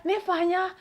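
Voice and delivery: high and loud, pleading to be understood; desperate repeat. Retold or imitated. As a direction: push the words harder, frantic. Child repeats, louder.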